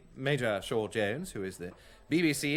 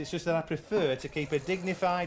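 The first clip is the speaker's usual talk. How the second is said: put-on plummy upper-class English accent; clipped BBC-style RP, dignified; speaking posh English to his mates; posh received pronunciation; 4 semitones higher than usual. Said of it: "I can perfectly imitate your spivvy accents".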